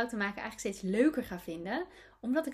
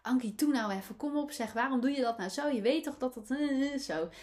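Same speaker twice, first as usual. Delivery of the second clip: mock scolding, higher and louder; grumbling at herself; 5 semitones higher, 4 dB louder than usual. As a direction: nag yourself in exasperation. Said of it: "Ik kon dan op mezelf mopperen".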